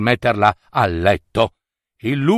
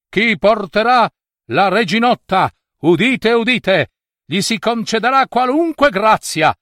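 town crier; 7 semitones higher than usual. A narrator's reading. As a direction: cry the royal decree aloud. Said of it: "fece subito un bando".

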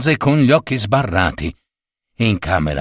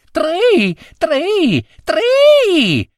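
very high chirping tri tri tri; cricket trill; much slower than usual. Acted. Cricket answering the husband with a high trill.

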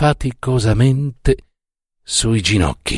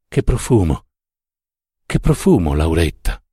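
blissful savouring; 5 semitones lower than usual. A narrator's reading.

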